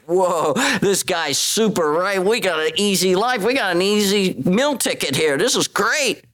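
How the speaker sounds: high, thrilled mock crowd cheer; excited crowd. Crowd fed by Jesus, excitedly cheering. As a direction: gush like freeloaders who found a meal ticket. Crowd after free meal.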